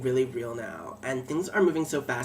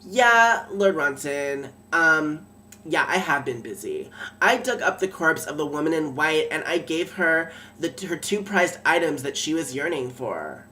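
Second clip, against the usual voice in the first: letting him have it; 3 dB louder than usual. Retold or imitated. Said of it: "I just let him have it".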